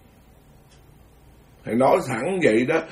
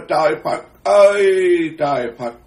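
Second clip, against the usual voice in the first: lament; 4 semitones higher, 5 dB louder than usual. Real, not acted. Preacher's lament.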